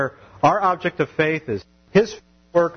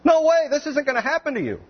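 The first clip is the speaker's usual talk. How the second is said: much higher, insistent mock protest; Peter rebuking; 13 semitones higher than usual. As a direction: refuse it outright, high and pushy. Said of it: "Peter's rebuking him".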